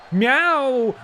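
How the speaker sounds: high, loud yowling meow; loud cat yowl. Pretend. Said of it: "What's Pippa got to say?".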